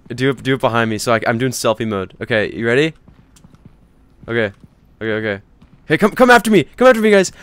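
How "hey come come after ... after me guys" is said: calling out. Acted. Calling friends to chase him.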